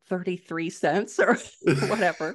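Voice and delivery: chuckling through the words; amused laugh mid-phrase. Real, not acted. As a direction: laugh while tossing off the amount. Joking about tiny royalties.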